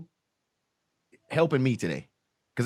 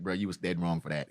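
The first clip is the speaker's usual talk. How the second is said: friend Jason; 12 semitones lower, 8 dB quieter than usual. Retold or imitated. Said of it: "gave me the look like".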